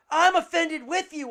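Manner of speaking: loud mock indignation; indignant retort. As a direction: blurt it out as an offended reply. Acting out one of two answers.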